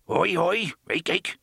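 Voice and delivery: high, loud animal cries; crying creature. A narrator's reading. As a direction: yelp like a scared little beast. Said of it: "the bumbler cried".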